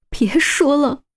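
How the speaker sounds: whispered, urgent plea. Acted. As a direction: hush him in a whisper. Woman begging him to stop.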